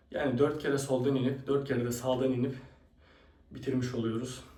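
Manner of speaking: breathless, panting between words; out of breath. Real, not acted. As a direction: talk while catching your breath. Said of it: "Çok nefes nefese kaldım".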